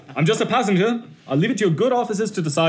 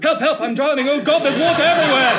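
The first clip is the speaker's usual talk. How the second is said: drowning; 7 semitones higher than usual. Acted. Voices panicking drowning passengers.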